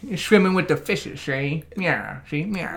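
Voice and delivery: hammed-up forties movie reporter patter; mock 1940s cop-and-reporter lingo; old-time reporter. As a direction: start high, then drop away in a put-on old-time voice. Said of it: "that's a reporter voice more than cop voice".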